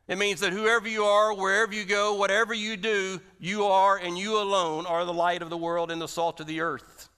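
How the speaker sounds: rally them with rising force; preaching climax. Real, not acted. Preacher to congregation, loud building climax.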